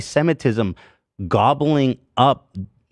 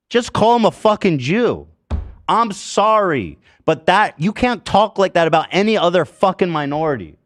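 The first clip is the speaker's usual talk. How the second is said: raised, higher, heated rant; angry outburst; 5 semitones higher than usual. Real, not acted. Host ranting at a tweeter, angry and raised.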